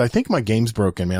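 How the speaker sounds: plain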